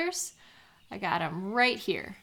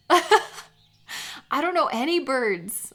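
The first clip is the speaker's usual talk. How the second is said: slow, higher words through a laugh; laughing admission; 5 semitones higher, 5 dB louder, much slower than usual. Real, not acted. Friend confessing to friend she knows no birds, laughing. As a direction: giggle out the confession.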